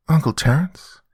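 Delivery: put-on high-pitched questioning child voice; little girl. Daughter finding Uncle Terrence, little-girl voice. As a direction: call out as a puzzled little girl.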